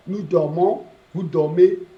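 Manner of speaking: nous dormons, vous dormez, each ending rising; drilled conjugation. Shown as a demonstration. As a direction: chant the endings to the class. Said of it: "You add S".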